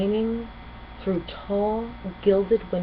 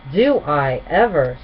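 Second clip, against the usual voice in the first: Spike, wry; 2 semitones lower, 6 dB louder, slower than usual. Acted. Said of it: "said Spike".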